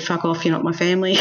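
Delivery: laughing mock yell of a rude nephew; imitating the nephew's rude brush-off, fast and laughing; mock nephew shout. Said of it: "My nephew said".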